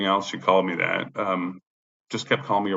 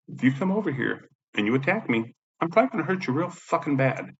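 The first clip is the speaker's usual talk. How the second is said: raised-pitch cautionary threat; retold stern warning; 6 semitones higher than usual. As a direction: replay warning her off, pitched up. Retelling his warning to attacker.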